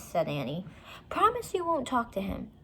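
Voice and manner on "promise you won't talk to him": stern big brother. Acted. Jack insisting.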